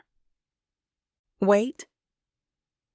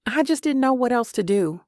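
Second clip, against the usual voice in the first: bawling; 5 semitones higher than usual. Acted. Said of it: "She starts bawling into her hands".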